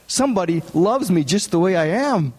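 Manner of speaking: overjoyed at being loved as he is; joyful. Acted. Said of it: "received him joyfully".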